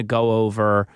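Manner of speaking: Philly accent on "go over", long rounded o. Real, not acted. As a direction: Philadelphia "go over" with a drawn o sound. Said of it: "wow, my Philly accent just came out".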